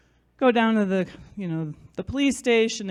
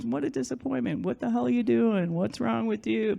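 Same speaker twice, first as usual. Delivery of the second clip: imagined parental scolding; 2 semitones higher, 7 dB quieter than usual. Retold or imitated. Imagines her dad's disapproving speech.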